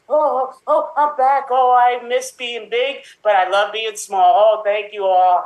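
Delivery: put-on high thrilled kid; overjoyed. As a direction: gush with happiness. Kid back from being big.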